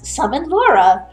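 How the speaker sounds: little dragon summoning. Acted. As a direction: ring out a summons. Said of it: "and he goes".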